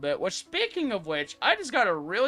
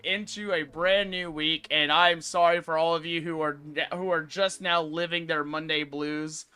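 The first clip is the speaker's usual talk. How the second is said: show-opening greeting. Acted. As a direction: stretch out the welcome like a show host.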